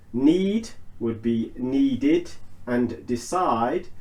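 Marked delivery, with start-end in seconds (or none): 1.5-2.3 "needed" slowly, ending in "did". Shown as a demonstration. Teacher giving another example, "needed" ending in did. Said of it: "note how I'm pronouncing the I D".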